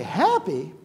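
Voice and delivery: high, slowing Botox punchline; a famous singer's joke. Retold or imitated. A famous country singer joking to the camera, high and slow. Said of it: "she says".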